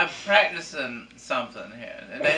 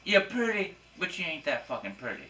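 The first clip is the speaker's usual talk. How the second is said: smooth flashy pimp swagger; 5 semitones higher, 6 dB louder than usual. Acted. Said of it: "talking like a pimp".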